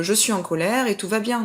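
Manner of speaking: lightly put-on serene singsong; mock all-is-well. Coach parodying over-the-top kindness to a mother, mock serene. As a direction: act as if anger were perfectly lovely. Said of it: "aller dans la bienveillance à fond en se disant".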